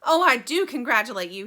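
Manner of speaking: loud, high burst of joy; excited cry. A narrator's reading. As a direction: explode with excitement. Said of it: "he cried".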